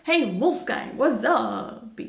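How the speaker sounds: mock homeboy "what's up"; drawn-out playful greeting to a gangster wolf. Greeting the imagined gangster wolf in a hoodie, playful swagger.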